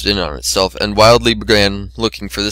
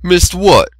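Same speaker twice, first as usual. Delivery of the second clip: pleading; 8 semitones higher than usual. Acted. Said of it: "Macintosh pleaded".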